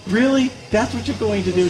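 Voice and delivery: incredulous. Retold or imitated. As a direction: ask in open disbelief. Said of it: "I'm like".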